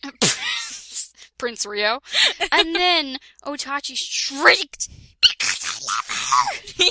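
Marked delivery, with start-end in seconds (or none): 0.0-1.1 squeaky giggle breaking into the word; giggling through the name; laughing. Real, not acted. Laughing mid-word while reading. 5.2-6.8 low, put-on dramatic voice; mock melodramatic declaration; shrieked line. Reading a shrieked quote.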